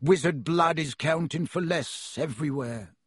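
smooth, fawning shopkeeper voice; oily voice. Acted. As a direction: purr it ingratiatingly. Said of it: "in his oily voice".

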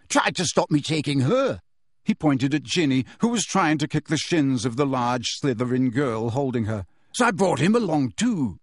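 rough, pleased report; brutish boy voice. Acted. Warrington reporting to Umbridge, rough pleased. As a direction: report like a thug.

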